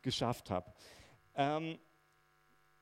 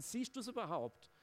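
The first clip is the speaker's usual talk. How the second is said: desperate plea; 7 semitones higher, 4 dB quieter than usual. Retold or imitated. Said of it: "disciples' cry to Jesus".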